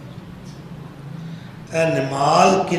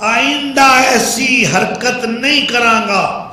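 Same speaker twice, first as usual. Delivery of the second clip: raised-pitch, preacherly imitation of begging; retold pleading; 5 semitones higher, 5 dB louder than usual. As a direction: act out a tyrant's urgent plea for pardon. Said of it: "ترلا کرن لگ پیا". (اچی آواز وچ ترلے دی نقل)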